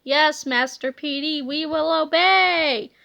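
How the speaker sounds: slow droning zombie; zombie reply. Acted. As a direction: answer like a mindless zombie. Zombie cops answer.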